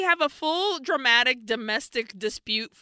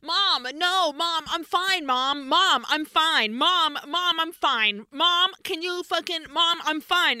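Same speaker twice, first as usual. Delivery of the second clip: higher-pitched mock protesting, over and over; exasperated son; 6 semitones higher than usual. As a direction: imitate a son trying to cut in on his mom. Acts son repeatedly protesting to mother.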